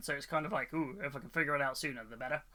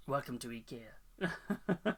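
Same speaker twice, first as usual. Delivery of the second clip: laughing mock welcome; 3 semitones lower, 5 dB quieter, much slower than usual.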